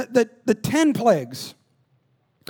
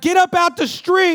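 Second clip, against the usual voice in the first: 1 calling out; 10 semitones higher, 8 dB louder than usual. Retold or imitated. Yelling at son in street.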